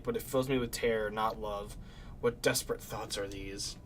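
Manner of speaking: dramatic journal reading aloud; diary reading. Acted. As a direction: read the diary like a haunted narrator. Reads game diary aloud.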